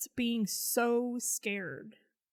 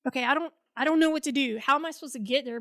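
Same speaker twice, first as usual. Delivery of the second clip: retold fluster; 2 semitones higher, 5 dB louder, faster than usual. Retold fluster, stranded without ride.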